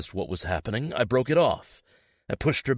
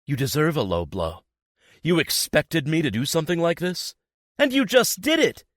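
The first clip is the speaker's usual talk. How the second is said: building to a high, loud shout; rising fury; 8 semitones higher, 4 dB louder than usual. A narrator's reading. Girlfriend building to a furious shout. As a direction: explode with betrayal.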